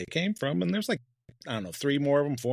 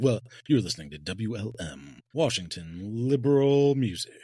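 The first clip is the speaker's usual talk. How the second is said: radio DJ voice; 4 dB louder than usual. Pretend. Mock radio DJ.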